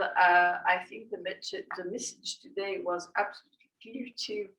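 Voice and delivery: weary, worn-out voice; tired voice. Real, not acted. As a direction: speak as if exhausted at day's end. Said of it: "Sorry for my, um, very tired voice tonight".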